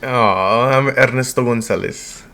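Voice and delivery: says his own name with a light Spanish accent; name rolled Spanish-style; a hint of Spanish accent on his own name. Real, not acted. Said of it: "like, Spanish accent when you say your name?".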